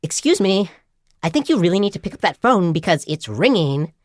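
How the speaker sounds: lightly imitated nagging recording; a touch of singsong insistence; insistent ringtone voice. Phone urging the person beside it to pick up, mildly insistent. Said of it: "now the phone is like".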